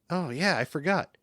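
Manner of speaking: a hint of a cartoon princess; lightly voiced princess, mock coy; Princess Zelda voice. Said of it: "That's my Princess Zelda voice".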